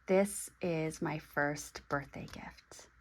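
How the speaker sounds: slow breathy whisper, all air, no voice; whispered reveal. Real, not acted. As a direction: let the secret out in a hush. Unveiling the gift to viewers.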